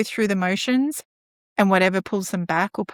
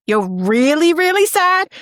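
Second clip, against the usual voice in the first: put-on high, louder rising question to a child; exaggerated sympathy; 8 semitones higher, 6 dB louder, slower than usual. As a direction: ham up the concern. Asking child about feelings.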